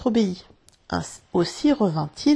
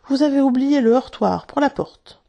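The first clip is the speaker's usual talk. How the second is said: higher and louder, crying out the reproach; exclaiming; 6 semitones higher, 6 dB louder than usual. Acted. Wendy crying out a reproach to the boys, louder and higher. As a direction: call out the forgotten door knocker. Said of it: "elle s'écria".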